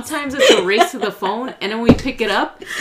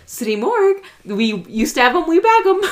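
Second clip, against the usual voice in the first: quoted morgue greeting; 6 semitones higher, 4 dB louder than usual. Retold or imitated. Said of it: "they go".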